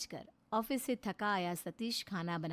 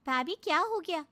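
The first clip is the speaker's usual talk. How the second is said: higher and louder, shocked question; alarmed sister; 8 semitones higher, 6 dB louder than usual. Acted. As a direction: rush in demanding what happened. Sister confronts shouting sister-in-law.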